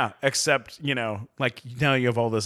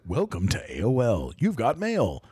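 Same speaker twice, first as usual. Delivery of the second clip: imitating a computer's recorded greeting; AOL greeting voice; 3 semitones lower than usual. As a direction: mimic the canned sign-in announcer.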